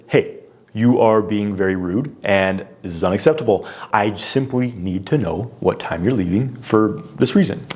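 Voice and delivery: measured, level firmness; cool and calm. Retold or imitated. Husband calling out his wife's rudeness, cool and calm. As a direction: hold your ground calmly, without heat. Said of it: "I said very cool and calmly".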